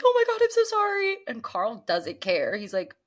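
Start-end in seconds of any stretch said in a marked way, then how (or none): 0.0-1.2 imitating Susan. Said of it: "And Susan's like".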